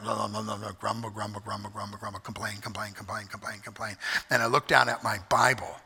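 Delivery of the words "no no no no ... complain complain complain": softer, low mock grumbling under the breath; mock grumble. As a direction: mutter the grumbles like a sulky child. Mimics grumbling under his breath.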